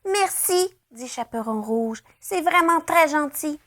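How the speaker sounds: put-on high little girl thanks; grateful girl. A narrator's reading. Girl thanks the rabbit, high childlike. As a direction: thank him sweetly.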